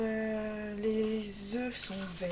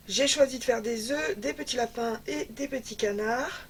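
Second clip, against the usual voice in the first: out of breath, panting between phrases; winded from the stairs. Real, not acted. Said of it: "je suis essoufflée".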